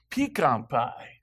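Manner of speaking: "Pecan" drawn out slowly as pee-kahn; pee-KAHN pronunciation. Shown as a demonstration. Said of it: "there's a difference in dialect".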